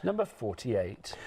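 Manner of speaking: drawn-out bingo number call; bingo caller. Acted. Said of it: "takes me back to my bingo calling days".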